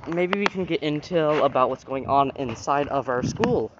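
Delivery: flat, mechanical robot voice. Real, not acted. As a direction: say it like a deadpan robot. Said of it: "I sounded like a robot there".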